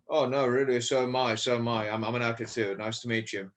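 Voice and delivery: lightly put-on British accent, as an actor; a self-mocking British accent; a hint of a posh British actor. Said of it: "that's my British accent, by the way".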